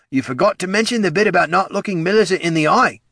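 high-pitched character voice; ghoul's remark. Acted. Ted chides the head of marketing, high ghoul voice. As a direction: chime in high above the narrator.

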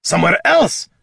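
furious warrior's shout; roared. Acted. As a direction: bellow the order at him. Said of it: "Gorm roared".

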